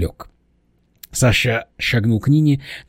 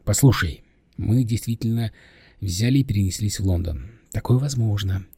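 ingratiating, coaxing. Acted. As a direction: ease someone gently into the news. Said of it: "проговорил вкрадчиво".

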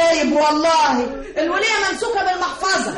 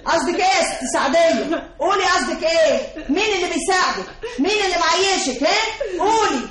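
demanding. Acted. Landlady shouting at the maid to confess. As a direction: push her hard to confess.

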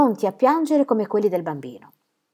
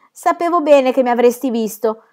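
put-on higher child voice, trusting and sure; confident child; 6 semitones higher, 5 dB louder than usual. Little Pierre answers his father, trusting child voice. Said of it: "con aria di chi ha fiducia".

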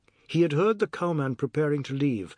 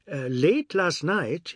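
slightly higher voice, slow hesitant start; lightly voiced man easing into an excuse; hesitant Biswas; 4 semitones higher, slower than usual. Biswas begins his made-up excuse.

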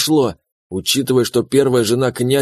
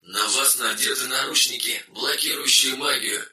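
quiet, detached game-system voice, much softer; system message; 8 dB quieter than usual. Acted. System notification about handcuffs. (тихое бесстрастное системное сообщение)

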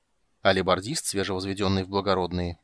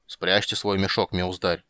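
stern; slower than usual. Acted. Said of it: "грозно произнёс будущий сотник".

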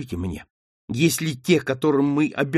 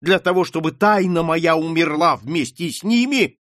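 heated; 3 dB louder than usual. Acted. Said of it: "продолжала горячо Маргарита".

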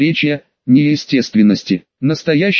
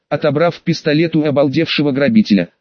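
ordinary delivery, nothing marked

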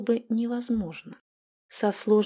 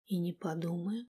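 smiling; 2 semitones lower, 11 dB quieter than usual. A narrator's reading. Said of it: "улыбнулся пленник".

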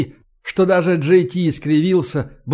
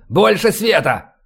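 slow, higher-pitched order; commanding; 4 semitones higher than usual. A narrator's reading. Squad leader demanding more light, drawn-out command. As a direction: call out for the whole squad. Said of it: "скомандовал Решетников".

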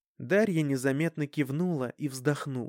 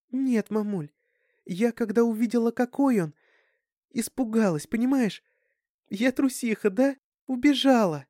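put-on high, guilty young girl; remorseful; 9 semitones higher, 4 dB louder than usual. A narrator's reading. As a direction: confess in a small raised voice, ashamed. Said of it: "раскаивалась Дарьяна". (с раскаянием, высоким девичьим голосом)

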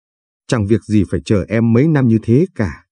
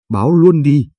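loud, higher taunting dare; defiant shout; 5 semitones higher, 3 dB louder than usual. Acted. Husband taunting wife in the street, loud defiant shout. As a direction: throw the dare back at her, loud. Husband daring her to call police.

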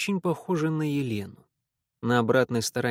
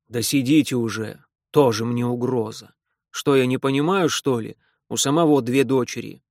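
loud, gruff demanding official; 2 semitones lower, 5 dB louder than usual. Acted. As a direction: bark it like a stern old official. Repnin's gruff voice. (громкий грубоватый чиновник)

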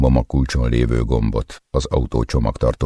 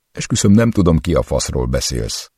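desperate plea; 4 semitones higher than usual. Acted. Captive swears to torturer in frantic desperation. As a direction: beg in panic.

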